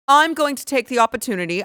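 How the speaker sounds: mocking English toff imitation; mock English accent. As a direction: put on a snooty English accent. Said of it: "an English accent".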